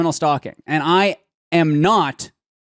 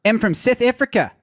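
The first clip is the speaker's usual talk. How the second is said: put-on South African accent; 5 semitones higher than usual. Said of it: "I can say one sentence as a South African".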